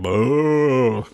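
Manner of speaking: hammy high zombie boo; Andrew Lincoln zombie boo. Retold or imitated. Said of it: "Here's how Andrew Lincoln did it".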